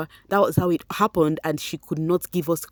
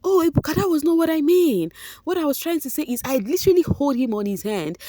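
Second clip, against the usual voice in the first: stuttering Chinwe; 10 semitones higher than usual. Retold or imitated. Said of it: "Chinwe started stuttering?".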